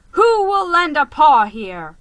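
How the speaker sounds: loud, high call to a crowd. Acted. Calling to the crowd.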